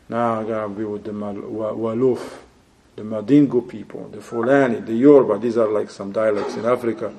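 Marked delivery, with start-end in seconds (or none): 0.1-5.4 low, quiet dismissive voice; mock tribal brother. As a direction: brush off the advice lazily.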